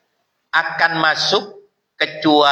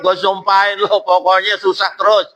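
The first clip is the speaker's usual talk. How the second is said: mock curse; 4 semitones higher than usual. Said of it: "bukan disumpahin".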